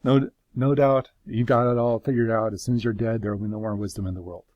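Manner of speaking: sarcastic mock agreement, trailing down; sarcasm. Job mocking his friends' wisdom, mild sarcasm. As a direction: concede it all with light sarcasm. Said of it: "I love that sarcasm".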